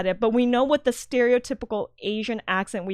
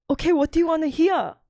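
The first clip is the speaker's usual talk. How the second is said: higher-pitched mock Asian accent; put-on Asian accent; 6 semitones higher than usual. Shown as a demonstration. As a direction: show off a hammed-up Asian accent on request. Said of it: "could I hear your accent".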